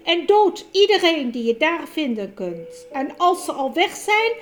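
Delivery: hoog en luid bevelend; bevelende heks. Acted. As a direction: geef de wolf koud je bevelen. Tovenares beveelt wolf. (bevelende koningin)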